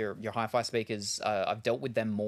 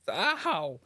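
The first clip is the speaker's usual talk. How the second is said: real pained ow; 7 semitones higher, 3 dB louder than usual. Real, not acted. Hurt by too-loud headset.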